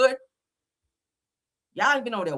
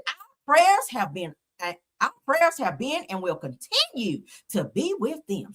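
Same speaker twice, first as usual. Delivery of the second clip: mock Becky voice. Mocking the judge's statement in a mock Becky voice. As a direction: read it like a smug prissy lady. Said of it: "I gotta say it in my Becky voice".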